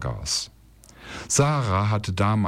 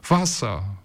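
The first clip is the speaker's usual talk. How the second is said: crying; 2 semitones higher than usual. Acted. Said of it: "weinte Ismael".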